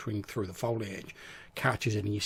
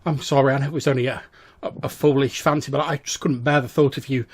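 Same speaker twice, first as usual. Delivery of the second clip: put-on apologetic young woman; 3 semitones higher, 6 dB louder than usual. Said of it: "She's like".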